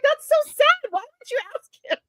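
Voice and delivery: high, mock-sad retell; hammed-up sorrow; mock pity. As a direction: fake sympathy through giggles. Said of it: "I'm like".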